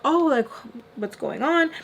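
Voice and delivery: high, sweet mock friendliness; super friendly. Man at the door to her visitor, imitated super-friendly. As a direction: greet with put-on innocence. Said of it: "super friendly with her".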